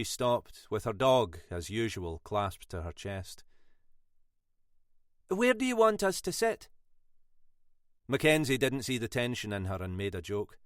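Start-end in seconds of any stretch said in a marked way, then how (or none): 5.3-6.7 higher, tight first asking; tense question. A narrator's reading. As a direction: ask it edgily, keeping worry in. Sylvia tense, asks first time.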